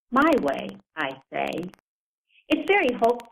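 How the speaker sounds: measured author's reading with deliberate pauses between phrases; literary reading aloud. Acted. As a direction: read your own piece to an audience, each phrase set apart. Reads own piece aloud.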